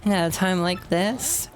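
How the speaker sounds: dramatic boss's daughter. Acted. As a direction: fret over daddy and the lost ring.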